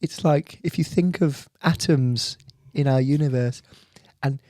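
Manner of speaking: soft, musing science presenter impression; Brian Cox. Explaining lemon drizzle cake's significance, Brian Cox impression. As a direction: marvel gently, pausing to find the words. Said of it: "Brian Cox hosting a community bake sale".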